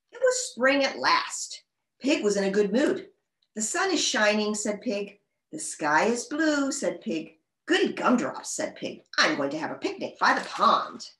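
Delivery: animated picture-book narration; story reading. A narrator's reading. Reader tells children Pig's spring morning, story reading. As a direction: read it out to young children, lively pitch swings.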